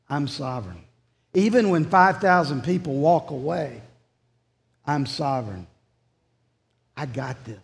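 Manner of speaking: understated calm divine reassurance; God reassuring. Retold or imitated. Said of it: "what God is showing in John six is".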